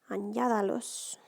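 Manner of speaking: Añádalos with the stress on its second syllable, ÑA; stress on middle A. Shown as a demonstration. Teacher showing where the accent goes, Añádalos stressed on ÑA. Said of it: "on that middle A of añada".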